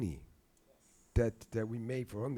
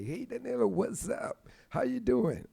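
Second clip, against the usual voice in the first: much higher, bright phone-message greeting; imitating a musician; 13 semitones higher, 3 dB louder than usual. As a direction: sing out a friendly hello in a friend's voice. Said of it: "Wayne Shorter leaving me a message and say".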